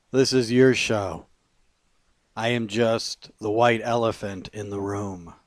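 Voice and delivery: emphatic, measured poem recitation; poetry reading. Acted. Poet reads a poem to listeners, emphatic recitation. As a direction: punch the key words and pause between lines.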